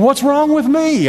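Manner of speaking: hammed-up bewilderment; mock puzzled. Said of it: "I was saying".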